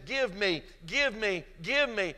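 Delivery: greedy, insistent demand, rising each time. Retold or imitated. Son demanding his inheritance from his father, insistent. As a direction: push it like a spoiled son. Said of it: "he went to his father and he says".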